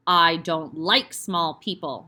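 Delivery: put-on slow, loud and heavy, looming over small children; slow menacing headmistress. Headmistress sneers at the pupils, slow and loud. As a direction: spit out each word with contempt. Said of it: "she was saying".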